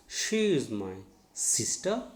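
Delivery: slow sentence with "sister" stressed on SIS; first-syllable stress. Shown as a demonstration. Teacher gives learners an example, slow, "sister" stressed on SIS. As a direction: spell it out slowly, weight on SIS of "sister". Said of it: "stress should be on".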